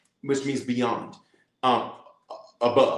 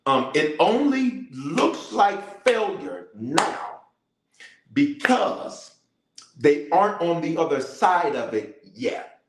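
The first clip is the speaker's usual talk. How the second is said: talking slow; 2 semitones higher, slower than usual. Shown as a demonstration. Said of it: "I'm talking slow".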